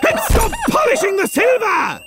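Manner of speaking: high-pitched furious outburst; explode, voice leaping right up; exasperated shout. Acted. Master ordering butler to stop polishing silver, exasperated shout.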